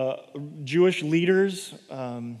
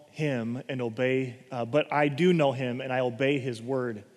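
calm steady Jesus; 5 semitones lower, 4 dB quieter than usual. Acted. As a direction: answer with quiet conviction. Jesus answering calmly.

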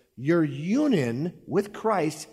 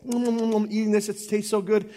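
higher, hammed-up mmm of someone enjoying food; mock savouring; 6 semitones higher than usual. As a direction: relish the bite playfully.

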